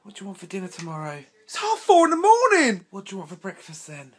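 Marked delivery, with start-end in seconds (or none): 1.4-2.9 exasperated. Acted. Exasperated retort.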